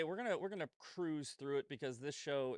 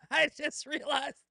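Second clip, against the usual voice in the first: higher and louder, laughing through it; 12 semitones higher, 9 dB louder than usual. Real, not acted. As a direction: laugh as it dawns on you. Laughing realization.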